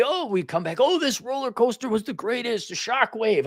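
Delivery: high-pitched gushing over a favorite ride; excited raving. Acted. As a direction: rave like a thrilled theme-park fan. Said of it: "There's no excitement or enthusiasm".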